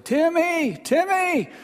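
put-on high calling shout for a lost child; father calling out. Worried father calling his son's name from outside, high and loud. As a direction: call the boy's name loudly from far off. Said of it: "I could hear his father's voice, like".

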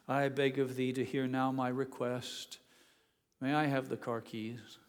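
lightly hammed-up King James prayer; mock formal plea. Teenage son imagining a grand plea to his father, mock formal. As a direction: beg for the car keys in a half-joking old-English style. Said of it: "how my father would have responded".

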